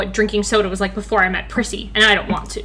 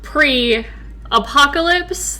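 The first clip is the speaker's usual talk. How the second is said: slow careful reading; 3 semitones higher, much slower than usual. Shown as a demonstration. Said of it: "This is gonna be a struggle".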